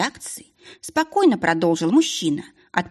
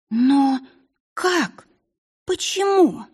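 rising higher, word by word, in disbelief; shocked disbelief; 8 semitones higher, much slower than usual. A narrator's reading. Princess hearing her father is dead, in rising disbelief. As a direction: pitch climbing with each stunned question. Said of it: "Она вскочила".

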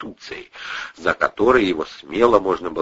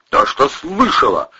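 grinding out words; 7 semitones higher, 4 dB louder than usual. A narrator's reading. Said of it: "скрипнул многочисленными коронками".

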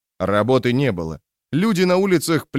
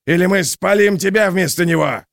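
gleeful thug voice; 8 semitones higher, 4 dB louder than usual. A narrator's reading. Mob character threat.

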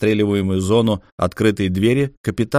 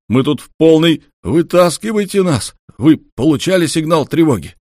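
higher and louder, desperate call for rescue; captain shouting to Olga, higher and louder; urgent shout; 7 semitones higher, 6 dB louder than usual. Acted. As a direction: yell for help over a bad line. Trapped captain yells over comm.

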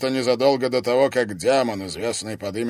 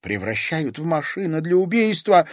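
higher, loud accusing cry; shouting out; 7 semitones higher, 6 dB louder than usual. Acted. Daughter accusing the oracle, shouting out. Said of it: "выкрикнула Дельфина".

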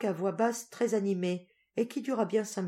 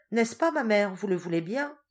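high, louder coaxing; coaxing plea; 5 semitones higher, 6 dB louder than usual. Acted. Teresa coaxing her mother to agree, high plea. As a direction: wheedle your mother.

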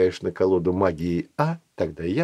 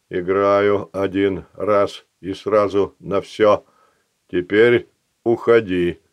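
slow stone monotone; slower than usual. Acted. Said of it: "выкатывая слова".

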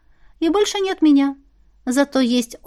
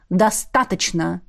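cut off; 3 semitones lower, slower than usual. Acted. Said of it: "отрезал Ант".

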